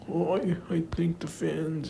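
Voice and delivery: high, slow, whimpering imitation of tears; hammed-up tearful thank-you; mock crying. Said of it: "He's, like, crying".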